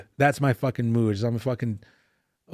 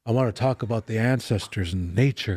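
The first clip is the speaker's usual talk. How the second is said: lightly voiced spiritual elder, solemn; mystic elder voice; 3 semitones lower than usual. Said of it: "they talk normal like this, but when they get a white audience".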